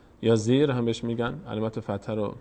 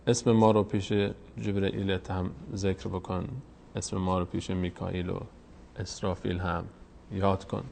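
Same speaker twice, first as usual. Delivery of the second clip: prayer. Real, not acted.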